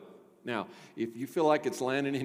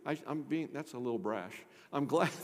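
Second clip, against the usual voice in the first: normal talking voice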